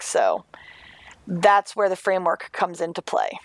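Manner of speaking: hushed whisper. Real, not acted. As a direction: whisper it like a secret. Dramatic reveal aside.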